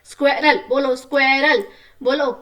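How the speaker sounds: स्क्वेरल called out loud, each syllable crisp; teacher calls the word out for kids to repeat, loudly; read aloud clearly. Shown as a demonstration. Teacher to pupils, modelling the word loudly. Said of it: "तेज तेज बोलना है".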